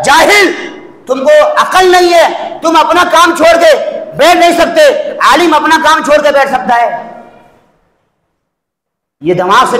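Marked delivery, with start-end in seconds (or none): 0.0-6.9 a preacher imitating critics who shout at him; mocking the scolders. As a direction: throw their scolding back at them in a raised yell. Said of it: "हमको आके समझाते हैं".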